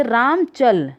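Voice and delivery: राम चल read slowly word by word; reading the cards slowly. Shown as a demonstration. Teacher slowly reading out the card sentence Ram चल. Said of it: "card पे राम लिख दिया गया और दूसरे कार्ड पे चल".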